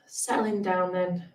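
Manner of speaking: calm, unhurried meditation voice with long pauses; guided meditation. Real, not acted. Meditation teacher settling listeners into today's practice, guided meditation. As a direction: ease listeners gently into stillness, leaving space between phrases.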